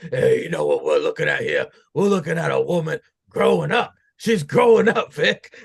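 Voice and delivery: mock defensive comeback, rising as it goes; Book. Acts out Book answering Vic.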